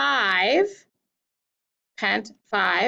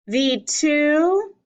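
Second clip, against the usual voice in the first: "the two" with a long, higher TWO; split into iambs; 4 semitones higher than usual. Shown as a demonstration. Teacher dividing the sonnet line, drawn-out stress on "two". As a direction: lean on "two" in "the two" and hold it. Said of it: "Let's divide the first line into iambs".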